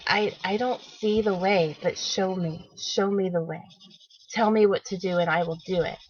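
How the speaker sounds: soft, earnest prayer; quietly asking for guidance; quiet plea. Retold or imitated.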